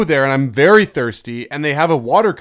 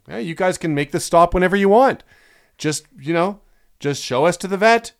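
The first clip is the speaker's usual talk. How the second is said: higher-pitched, mock-polite needling; passive-aggressive; 5 semitones higher than usual. Owner to vet staff as the dog barks, passive-aggressive. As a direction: make a pointed offer sound casual. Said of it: "getting a little passive aggressive".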